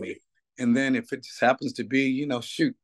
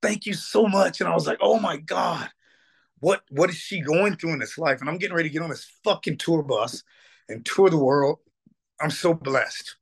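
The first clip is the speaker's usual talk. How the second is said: higher, choked-up voice, close to tears; real tearful emotion; 5 semitones higher than usual. Real, not acted. Guest moved to tears telling the host, tearful and higher. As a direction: let the tears creep in as you remember her. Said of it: "I didn't think I was gonna cry".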